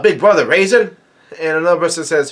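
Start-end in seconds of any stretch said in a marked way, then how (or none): 0.0-1.0 mild mock yell, pitched up; retold yell. Onlooker calling to Big Brother Raisin, mild mock yell. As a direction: call out in startled question, lightly acted. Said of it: "somebody yells out".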